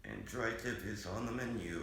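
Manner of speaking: flat mechanical robot voice. Pretend. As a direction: speak like a computer voice. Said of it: "sounds exactly like a robot".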